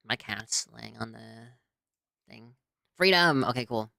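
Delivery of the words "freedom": high, loud joyful cry; excited. Real, not acted. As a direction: cheer it out. Game unpauses, exclaims.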